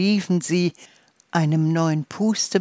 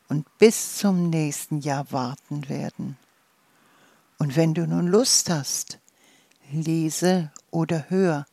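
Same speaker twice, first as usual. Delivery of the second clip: calm, unhurried meditation voice; guided fantasy journey. Acted. Guiding a listener through a dandelion daydream, calm and soothing. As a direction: ease the listener gently into the daydream.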